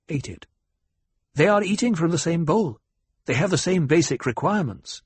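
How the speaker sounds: lightly voiced youngster making his case; lightly voiced young debater. Paul argues with the banker at table, mildly pointed.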